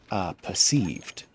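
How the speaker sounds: pause, then "perceived" drawn out slowly; seeming emphasis on perceived. Real, not acted. Streamer searching for the next word, seeming emphasis on "perceived". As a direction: hesitate before a slow "perceived". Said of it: "putting emphasis on the word perceived".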